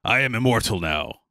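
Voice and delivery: arrogant dragon-souled dagger; haughty villain talking down to everyone; obnoxious, contemptuous. Acted. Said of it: "speak like an asshole".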